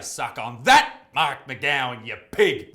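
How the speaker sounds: loud, punched-out insult; gloating mock-angry jab; jeering taunt. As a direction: hurl it at a politician with relish. Jeering aside at a politician.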